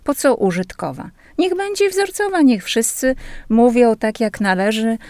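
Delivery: mock outraged listener, high-pitched then settling; indignant older lady. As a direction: retell an indignant protest. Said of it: "wyraziła swoje ogromne oburzenie".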